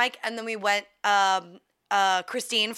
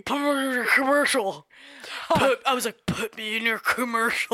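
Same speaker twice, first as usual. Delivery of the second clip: mock pleading; 4 semitones higher, 3 dB louder than usual.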